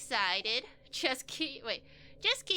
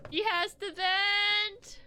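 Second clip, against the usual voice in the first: loud drawn-out cry; exclaiming slowly; 9 semitones higher, 5 dB louder, much slower than usual. Real, not acted. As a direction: stretch it out loud. Character bursting to vent.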